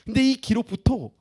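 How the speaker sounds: normal talking voice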